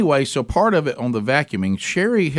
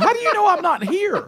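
laughing. Retold or imitated. Retelling complaint to wife, laughing.

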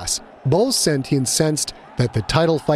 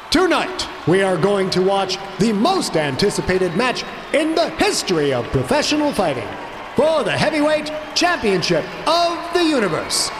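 booming fighting game announcer; 5 semitones higher than usual. A narrator's reading. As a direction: belt it out to the arena. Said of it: "and the announcer spoke".

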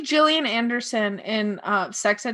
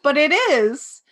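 laughing confession; 4 semitones higher, 6 dB louder than usual. Real, not acted. Laughing confession about album.

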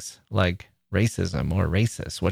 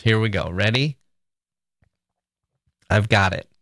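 mock demo. Shown as a demonstration. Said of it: "Again, I'm gonna write one".

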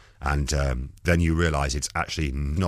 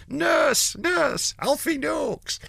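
put-on high, loud drunken yell at the stage; drunken heckling shout; 5 dB louder, much slower than usual. Heckling Dudley Moore from the audience, drunken high shout. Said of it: "I was shouting things like".

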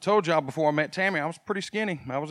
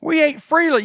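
high, loud mocking whine of nostalgia; hammed-up crowd crying for Egypt; mock whining Israelites; 10 semitones higher, 7 dB louder than usual. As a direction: lament slavery days like spoiled complainers. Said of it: "They're crying out, going".

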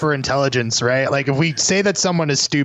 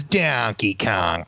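Adam Sandler impression; 4 semitones lower, much slower than usual. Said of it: "Adam Sandler says".

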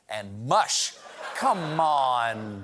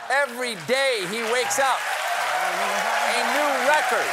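excited; 6 semitones higher, 4 dB louder than usual. Acted. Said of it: "That's impressive".

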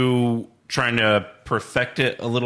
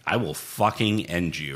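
menacing wrestler; 6 semitones lower, 5 dB quieter than usual. Retold or imitated. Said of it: "He was like".

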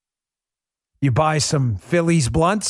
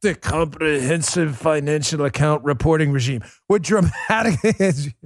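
reading the official title in a hammed-up Russian accent; mock Russian accent. Shown as a demonstration. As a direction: play a stern Soviet official, Russian accent. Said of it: "like, a, a Russian accent".

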